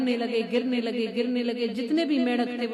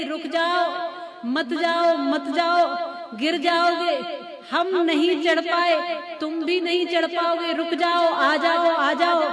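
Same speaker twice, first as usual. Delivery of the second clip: higher-pitched, insistent mock shouts; imitated calling out; 4 semitones higher than usual. Fallen frogs to the climber, mock shouting to stop. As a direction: urgently call the climber back, acted out. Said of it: "चिल्ला चिल्ला कर कह रहे थे".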